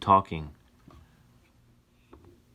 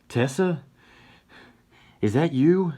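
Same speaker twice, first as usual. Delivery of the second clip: surprised; 8 semitones higher, 4 dB louder than usual. Acted. Johnny waking dazed.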